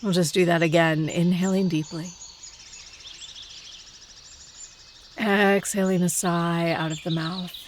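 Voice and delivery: calm meditation guide with long pauses between phrases; unhurried, let each phrase settle before the next; guided meditation. Acted. Meditation teacher settling listeners into stillness in the forest, guided meditation.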